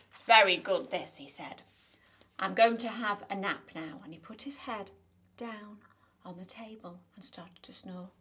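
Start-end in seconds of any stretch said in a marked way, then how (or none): 0.1-4.0 loud giant. Acted. Giant talks after eating.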